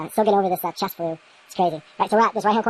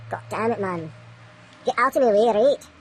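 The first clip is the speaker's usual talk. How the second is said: frustrated outburst; 3 semitones higher, slower than usual. Real, not acted. Vlogger snapping at the obstacle during measurements, frustrated. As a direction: bark it at the thing in the way. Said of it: "Little frustrated".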